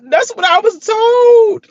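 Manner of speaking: high voice cracking with laughter; laughing. Real, not acted. Retelling the Hyman segment, cracking up laughing. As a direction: laugh through the words.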